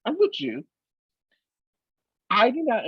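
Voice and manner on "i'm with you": gushing fan. Retold or imitated. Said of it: "I was like".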